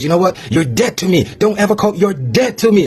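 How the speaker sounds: high-pitched retelling of an outburst; mock angry sister. Retelling sister's phone outburst, high mock anger. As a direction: imitate the sister snapping, pitched well up. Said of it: "she just starts going off on me".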